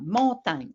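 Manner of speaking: "montagne" in two oral syllables, mon-tagne; split in syllables. Shown as a demonstration. Teacher splitting the word for a child, "montagne" as mon-tagne. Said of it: "On le sépare en syllabes".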